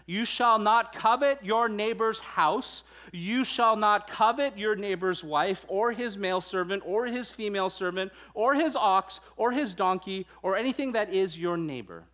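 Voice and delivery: preacher booming the text to drive it home; emphatic reading. Shown as a demonstration. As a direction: read it out as if the verse is in all caps. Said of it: "when we want to emphasize something".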